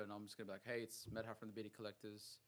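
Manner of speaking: low, quiet, monotone greeting; deadpan, understated self-introduction; disinterested. Shown as a demonstration. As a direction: sound bored by your own intro. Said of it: "You gotta seem disinterested".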